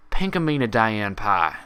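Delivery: loud, slow, commanding; firm full name. Acted. Applejack snapping Pinkie out of panic, firm and slow. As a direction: call her back sharply. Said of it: "said Pinky's full name firmly".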